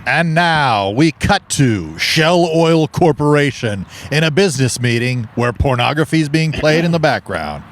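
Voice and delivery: slow, drawn-out scene introduction; measured mock-dramatic setup; scene announcer. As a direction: announce the sketch like a narrator. Announces the improv scene being set.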